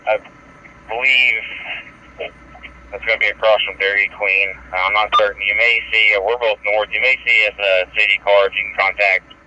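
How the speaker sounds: police radio. Real, not acted. Police radio scanner traffic.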